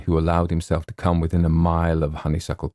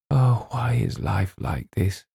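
sad whisper; 5 semitones higher than usual. Acted. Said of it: "James heard her whisper".

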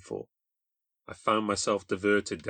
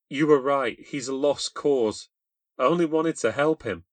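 sweet, frightened, higher and louder; 5 semitones higher, 6 dB louder than usual. A narrator's reading. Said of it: "The sweet but frightened voice spoke out to me".

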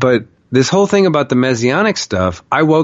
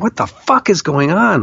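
higher-pitched retold bewilderment; wigging out; 6 semitones higher than usual. Man bewildered by his own vision, wigging out. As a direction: act out freaking out, without shouting. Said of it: "wigging out at this time".

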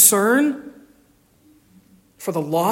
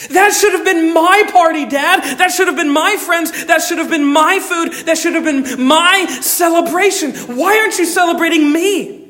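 petulant jealousy; 9 semitones higher, 4 dB louder than usual. Acted. Older son's jealous complaint.

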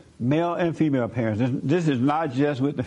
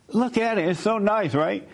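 high, eager praise of the project; excited boss; 5 semitones higher than usual. Retold or imitated. Boss to staff, excited high praise. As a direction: show off the work, thrilled.

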